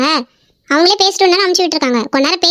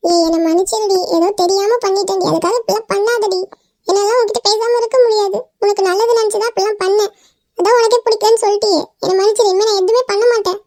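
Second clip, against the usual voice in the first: tearful pleading; 3 semitones higher than usual. Acted. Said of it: "அழுவுறாங்கடி".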